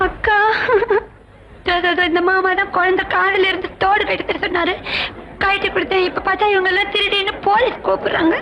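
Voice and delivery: sobbing, wailing complaint; tearful. Acted. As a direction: pour it out through acted sobs. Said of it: "அழாத செல்லம்மா".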